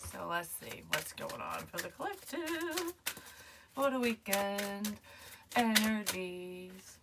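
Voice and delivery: playful sing-song, drawn out; silly voice. Pretend. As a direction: goof around, stretching the words. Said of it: "Now I'm being a weirdo".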